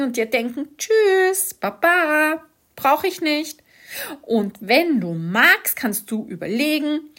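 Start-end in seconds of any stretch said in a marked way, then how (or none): 0.8-3.6 higher, louder breezy send-off; a gleeful, louder farewell to the monster voice; cheery goodbye. Pretend. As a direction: wave the inner critic off, loud and bright.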